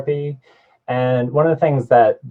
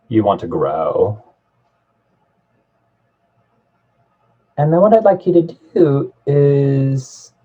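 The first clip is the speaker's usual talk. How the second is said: measured guided-meditation delivery with long pauses between phrases; guided visualization. Real, not acted. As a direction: guide a listener gently inward, leaving space after each thought. Leads a guided visualization exercise.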